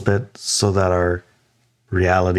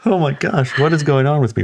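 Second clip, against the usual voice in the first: retold bewilderment; 6 semitones higher than usual. Retold bewilderment after meeting a gnome.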